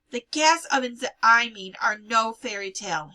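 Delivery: loud, heavy insistence; grim insistence. A narrator's reading. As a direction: insist it is no fairy tale. Hannah insisting grimly.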